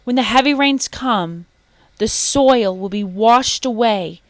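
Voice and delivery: excited monkeys warning the man; chattering monkeys. A narrator's reading. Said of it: "They chattered to the sleeping man".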